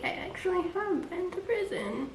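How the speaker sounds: very soft, high retold admission; hushed confession. Date admitting prison time, hushed acted confession. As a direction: drop to a small, soft voice. Retells date's quiet confession.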